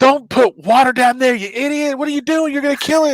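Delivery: high-pitched, exasperated telling-off; scolding wildlife preserver. Retold or imitated. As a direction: imitate an alarmed expert scolding an amateur. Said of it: "He was like".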